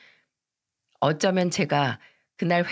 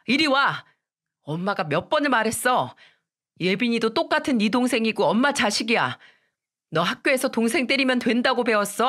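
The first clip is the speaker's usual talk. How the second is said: stern mother's scolding, somewhat higher; 4 semitones higher than usual. Retold or imitated. Mother scolding her son for cruel words, stern. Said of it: "아들을 크게 혼내기 시작했어요".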